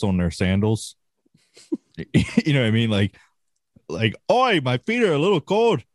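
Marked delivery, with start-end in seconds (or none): 4.3-5.8 high-pitched joke Australian accent, badly done; a quick, hammy stab at an Australian accent; mock Australian accent. Joking that Australians get cold feet, mock Australian accent. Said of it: "I don't know what the fuck accent that was".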